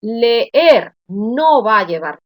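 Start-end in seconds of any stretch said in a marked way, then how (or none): 0.0-0.9 Leer in two slow, loud syllables, weight on the last E; stress on last syllable. Shown as a demonstration. Teacher showing an aguda word, final syllable stressed in Leer. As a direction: split Leer and lean on the second E. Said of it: "es una palabra aguda".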